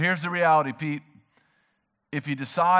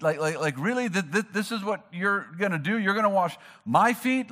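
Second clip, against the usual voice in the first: incredulous Peter; 4 semitones higher than usual. Retold or imitated. Peter's disbelief, acted out.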